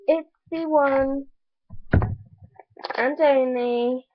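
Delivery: slow build, then a long high "shoes"; excited reveal. Real, not acted. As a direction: draw out the big reveal.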